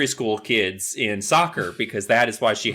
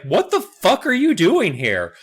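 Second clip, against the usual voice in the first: put-on shocked girls; 9 semitones higher, slower than usual. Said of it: "they're just like".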